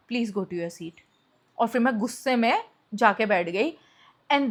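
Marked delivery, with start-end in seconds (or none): 0.1-0.9 quiet and lower, backing down; softly. Retold or imitated. Manager finally backing off, telling her softly. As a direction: say it softly, retreating. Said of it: "फिर उसने धीरे से बोला".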